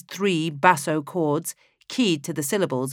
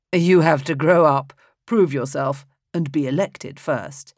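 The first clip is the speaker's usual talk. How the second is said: a hint of amused fatherly emperor; 4 dB louder than usual. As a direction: lightly correct the boy with a smile. Emperor amused, corrects son.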